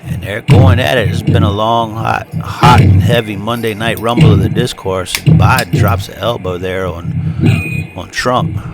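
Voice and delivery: lively ringside play-by-play call; wrestling commentator. Acted. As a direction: call the match like a wrestling announcer.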